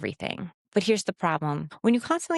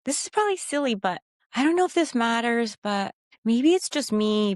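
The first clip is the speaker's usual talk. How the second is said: higher-pitched self-doubting hedges; mock unsure disclaimers; overqualifying; 5 semitones higher than usual. Shown as a demonstration. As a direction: hedge each phrase apologetically.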